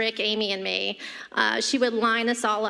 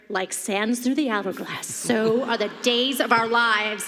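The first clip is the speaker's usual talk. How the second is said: soap opera announcer. Retold or imitated. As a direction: intone it like a soap opening. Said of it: "we heard".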